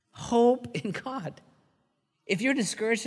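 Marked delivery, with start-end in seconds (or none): 0.1-1.4 slow tender repeat. Shown as a demonstration. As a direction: linger on each word gently.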